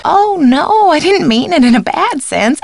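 flustered protest. Acted. Housekeeper correcting a misunderstanding, flustered protest. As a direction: jump in high to take it back. Hastily takes back a remark.

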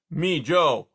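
a sleepy beaver calling across the pond. Acted. Beaver dialogue.

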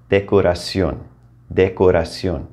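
"Decoración" as deh-ko-rah-SYOHN, last syllable stressed; "decoración" ending in a stressed -ción. Shown as a demonstration. Teacher models "Decoración" from English decoration. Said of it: "put an accent over the O".

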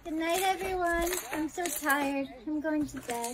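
soft, winding-down goodnight; sleepy. Acted. Girl saying goodnight at a slumber party, sleepy. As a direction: trail softly toward sleep. Tired girl goes to bed.

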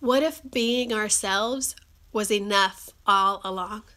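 slow, measured rhetorical question; posing big question. Real, not acted. Asking viewers the big question, slow and deliberate. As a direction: let each phrase land separately. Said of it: "the big question I want to ask you".

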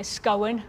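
"scowen" for scone, stretched into two syllables; Black Country "scowen", two syllables; double syllable. Shown as a demonstration. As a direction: say "scowen" as SKOH-in. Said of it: "we put a double syllable".

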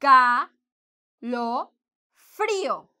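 escalofrío drawn out slowly, syllable by syllable, stress on the final í; slow syllable drill. Shown as a demonstration. Teacher slowly sounding out escalofrío for students. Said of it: "because we have an accent mark here".

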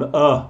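isolated short "uh"; a bare weak vowel, "uh"; schwa sound. Shown as a demonstration. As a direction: show reduced are as just "uh". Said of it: "Es como un".

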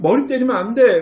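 put-on loud, high scolding of a child; sharp scolding. Shown as a demonstration. Parent scolding a child who hits heads, loud and high. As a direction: bark the rule at the child. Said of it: "막 이래버린단 말이에요".

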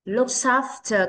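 "Looks after" slow, the s joined to "after"; linked sounds. Shown as a demonstration. Teacher shows children linking, "Looks after" slowly joined as "look-safter". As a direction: carry the end of "Looks after" across the words. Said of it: "Các con có thể đọc nối âm qua".

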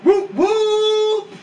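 high, drawn-out whooping holler; hype call. Acted. Hyped entrance call.

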